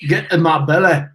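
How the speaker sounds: mock Scottish growl of "Get in my belly"; lightly done Scottish movie-villain line; a hint of a Scottish accent. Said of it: "the speaker speaks Scottish".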